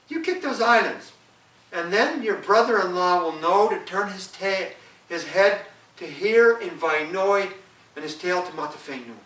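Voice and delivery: wife's voice. Acted. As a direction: give careful instructions as the wife. Wife voiced in folk tale.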